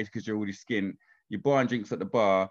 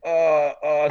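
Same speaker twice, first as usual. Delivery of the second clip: embarrassed laughing; 6 semitones higher, 7 dB louder, much slower than usual. Retold or imitated. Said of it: "pissing herself".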